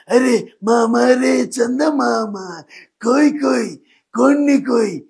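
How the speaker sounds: mock-tearful comedian voice protesting the request; ETV Ganesh impression. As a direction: sing it as if complaining while on the verge of tears. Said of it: "ఆయన voice మన గణేష్ గారు".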